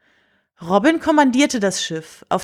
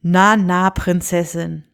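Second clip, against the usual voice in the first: friendly; 2 semitones lower, slower than usual. Acted. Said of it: "sagte er freundlich".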